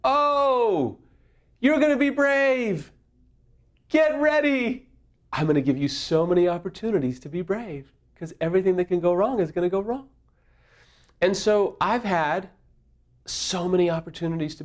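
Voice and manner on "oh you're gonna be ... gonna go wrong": higher, mocking, teasing voice; taunting inner voice. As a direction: taunt him like a gleeful tormentor. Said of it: "there's this voice that says".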